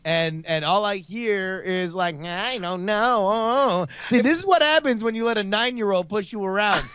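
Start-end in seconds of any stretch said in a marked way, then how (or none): 2.2-3.9 mocking mumble. Mocking partner's weak pitching.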